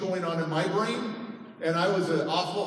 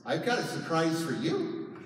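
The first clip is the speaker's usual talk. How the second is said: a softly put-on pleasant voice; nice voice; 4 dB quieter than usual. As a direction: gently imitate a sweet mother. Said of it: "she has this nice voice".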